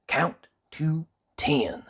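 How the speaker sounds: a hint of a kind old tramp; encouraging reminder; kindly tramp. Tramp reminding Jelly before leaving, kindly.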